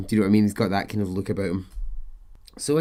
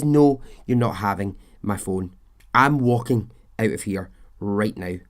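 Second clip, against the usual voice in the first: angry; 4 dB louder than usual. Retold or imitated. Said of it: "and now she's angry".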